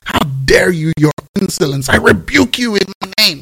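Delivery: imagined Jesus scolding Martha, mock outrage; mock indignation. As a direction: play an offended master putting her in her place. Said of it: "He didn't say".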